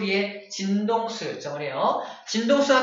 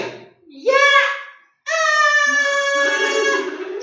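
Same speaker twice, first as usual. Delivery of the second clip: high yelling mom; 4 dB louder, much slower than usual. Shown as a demonstration. Teacher imitates mom calling out, high and loud. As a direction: yell like a nagging mom, pitched way up. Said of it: "엄마 목소리".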